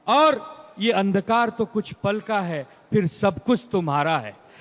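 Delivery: emphatic recital of rhymed tribute lines; verse recitation. Acted. Debater reciting verses in praise of Sambhaji Maharaj, declaimed. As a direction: declaim a short poem in someone's honour. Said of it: "कुछ पंक्तियां उनकी शान में पढ़ता हूँ".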